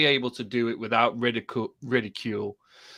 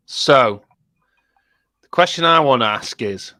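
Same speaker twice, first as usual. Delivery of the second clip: loud, emphatic announcement; shouting; 9 dB louder than usual. Real, not acted. Putting a question to the lads, shouting. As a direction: project it much too loudly. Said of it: "Why are you shouting?".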